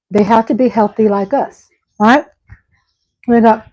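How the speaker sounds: talking around a candy; words through a mouthful of candy; chewing while talking. Real, not acted. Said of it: "I'm chewing in y'all's ear".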